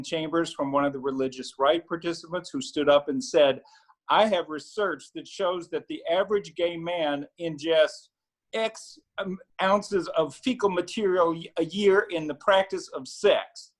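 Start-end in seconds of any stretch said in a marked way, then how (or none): 4.1-13.7 lightly put-on Southern accent, pitched a bit up; quoting a speech in a mild Southern twang; mock Southern accent. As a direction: imitate a religious-right speechmaker with a Southern accent. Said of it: "put a Southern accent on that".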